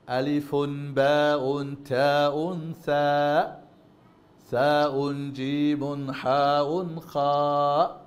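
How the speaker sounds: Arabic endings "আলিফুন, বাউন, তাউন"; Arabic letter names. Shown as a demonstration. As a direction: chant "আলিফুন, বাউন" with nunation. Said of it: "Arabic ভাষার উচ্চারণ হবে". (আরবি ভাষার উচ্চারণে "আলিফুন, বাউন")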